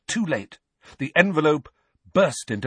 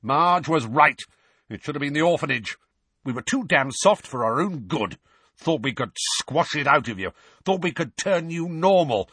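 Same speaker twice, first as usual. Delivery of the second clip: fed-up tirade, pitched up; exasperated rant; 5 semitones higher than usual. Acted. Uncle fed up with the boy he took in, exasperated. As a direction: rant like a man at the end of his patience.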